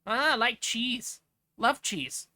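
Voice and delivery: put-on slow, playful Midwest accent. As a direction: draw it out like a hammed-up Midwesterner. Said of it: "I gotta talk like this".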